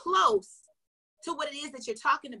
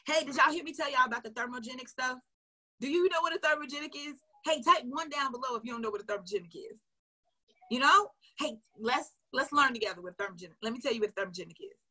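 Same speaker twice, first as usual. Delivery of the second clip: conversational. Shown as a demonstration. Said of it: "Have a conversation".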